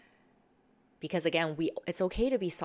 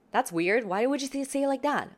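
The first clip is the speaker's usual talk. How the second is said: reactive; 8 semitones higher, 4 dB louder than usual. Shown as a demonstration. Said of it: "you're getting a little bit reactive".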